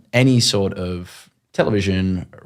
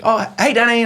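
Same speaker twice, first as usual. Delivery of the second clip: caller voice; 12 semitones higher, faster than usual. Retold or imitated. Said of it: "this girl rings and she says".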